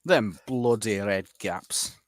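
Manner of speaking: slow gruff northern accent. Shown as a demonstration. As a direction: grumble it like a northerner. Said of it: "that northern accent thing".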